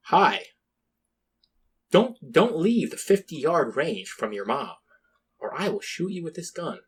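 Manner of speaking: lightly voiced, deliberately dull soldier; a hint of a bored Midwestern veteran, slowed down; bland Middle American. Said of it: "very bland, um, like, middle American one".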